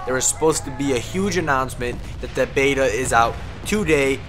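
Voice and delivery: ordinary talk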